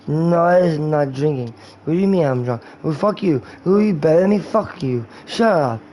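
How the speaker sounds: belligerent mock-drunk slur; drunk guy. Drunk guy cursing at his sober friend, slurred and belligerent. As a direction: argue back like an offended drunk. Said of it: "You are drunk".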